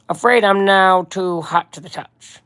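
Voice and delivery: slow, measured crime-boss voice; lightly voiced mob boss, drawn-out words; Kingpin. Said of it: "I gotta do my Kingpin voice again".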